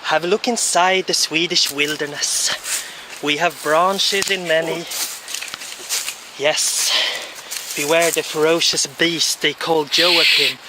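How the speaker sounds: lightly mock wildlife-film voice; nature documentary narrator. Touring the forest, mock documentary narration.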